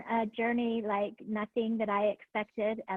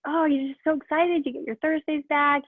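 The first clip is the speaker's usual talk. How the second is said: higher-pitched quote of an upbeat husband; imitated excitement; 4 semitones higher than usual. Student retells husband's remark about Thursdays, mock excited. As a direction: lightly mimic someone being excited for you.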